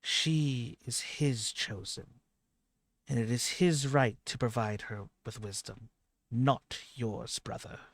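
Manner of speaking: calm reasoning divine voice; gentle voice. Acted. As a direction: speak it like a patient god. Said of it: "a gentle voice speak up".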